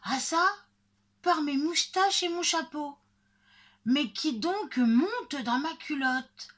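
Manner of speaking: high, loud indignant shouting; howling and crying out. A narrator's reading. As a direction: shout like an outraged woodcutter. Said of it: "le bûcheron hurle et crie". (cris aigus de bûcheron outré)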